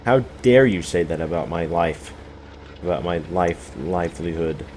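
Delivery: hammed-up indignant viewer; mock offended outrage. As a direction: play the outraged fan, half joking. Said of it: "would be like".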